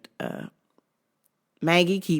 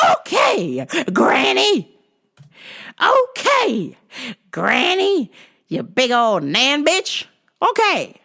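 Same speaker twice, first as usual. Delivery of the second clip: mocking whine; 9 semitones higher, 5 dB louder, slower than usual. Clerk mocking the old lady.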